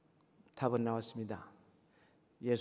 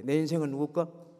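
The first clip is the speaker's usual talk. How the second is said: louder, fuller call to the congregation; the question repeated much louder; 5 dB louder than usual. Shown as a demonstration. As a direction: say it again, bigger and louder. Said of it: "좀 더 크게".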